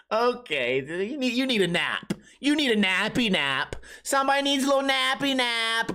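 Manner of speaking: put-on condescending baby talk; mock nurturing to a tantrum; talking to a toddler. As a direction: soothe him like a cranky kid. Talking to heckler like a child.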